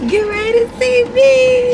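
high, loud show-off call; playful boast. Pretend. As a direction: hype yourself up loudly.

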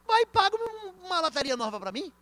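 a loud, pointed order to pay up; loud demand. Acted. Pastor tells the driver to pay, a loud demand. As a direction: raise the voice, high and loud.

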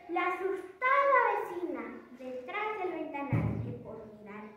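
put-on a child declaiming proudly at a contest; grand poetry declamation. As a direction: recite the poem with grand, swelling feeling. (declamación poética solemne)

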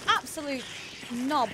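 loud laugh then mock insult; laughing at her mate; teasing through laughter. Real, not acted. Laughing at friend after scare.

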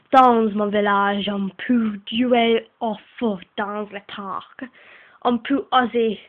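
reading homework aloud in a put-on French accent; a light French accent, reading slowly. Girl reads her French homework to viewers, in a French accent. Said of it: "Here comes my French accent".

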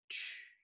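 "去"念成短促的ch音; 轻声示范"去"这个音; 念出新字母的音. Shown as a demonstration. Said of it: "叫做什么？". (示范"去"的发音)

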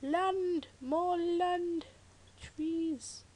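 high delighted exclamations; excited discovery. Real, not acted. Gamer spotting new land, thrilled. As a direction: gasp and cry out in delight.

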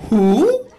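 high, loud, startled question; hammed-up bewildered phone answerer; incredulous. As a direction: bark it in mock disbelief. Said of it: "can't believe that you would ever get a wrong number".

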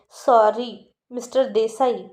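slow, mocking drawn-out sorry; Sweety mockingly apologizes to Aryan before kicking him; sarcastic sorry. Girl to boy, slow sarcastic apology.

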